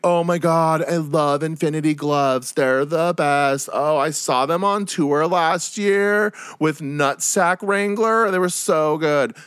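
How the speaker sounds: high, slow, dreamy fangirl gush; gushing festival kid. Retold or imitated. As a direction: stretch it out like a clueless fan faking it. Festival kids gush over fake band.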